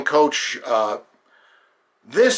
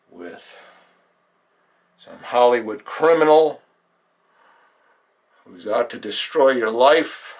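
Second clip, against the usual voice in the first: guided meditation; 2 semitones lower than usual. Acted. Acting coach guiding listeners through his own grievances, measured meditation voice. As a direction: guide them inward, leaving long silences.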